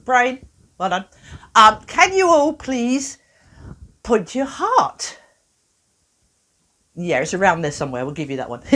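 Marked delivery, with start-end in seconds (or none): 1.5-5.2 slow instruction. Shown as a demonstration. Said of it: "instructing audience".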